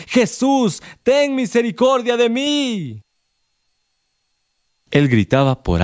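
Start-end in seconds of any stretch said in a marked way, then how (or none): 0.1-3.0 high, slow begging cry; pleading cry. A narrator's reading. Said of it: "él más le gritaba". (grito suplicante, agudo y lento)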